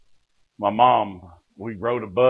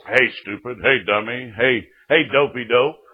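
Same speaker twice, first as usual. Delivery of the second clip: a hint of a teasing old preacher; mock preacher taunts; 2 semitones higher, 4 dB louder than usual. Old preacher mockingly calling the young man names. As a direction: tease him like a rough country preacher. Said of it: "Called me names".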